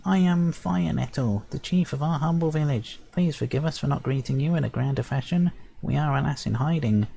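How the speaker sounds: a small chief with grand manners; tiny sprite chief. Acted. Sprite chief introducing his village to the hero, high and stately.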